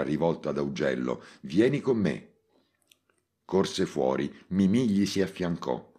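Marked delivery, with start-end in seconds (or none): 1.4-2.3 shouted call. Acted. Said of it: "e gridò ancora".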